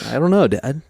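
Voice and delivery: imitating a sullen kid; mock bratty teenager; sulky teen. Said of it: "kid answering dad".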